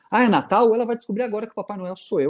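hammed-up angry rant, rushing; a dad losing it, half joking; mock furious father. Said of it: "E eu falo". (pai furioso de brincadeira, acelerado)

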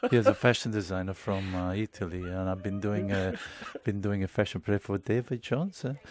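lightly voiced Italian designer introducing himself; Italian accent. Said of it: "am I allowed to do an Italian accent?".

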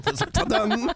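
lightly voiced cheerful old man from the country; a chatty old-timer hamming it up for the radio crew; a hint of a jolly old man; Pepper Brown. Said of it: "c'est moi, Pepper Brown, sympathique vieillard".

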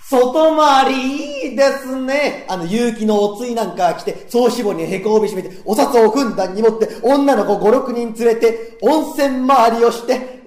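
gleeful fantasy. Acted. Daydreaming fan excited.

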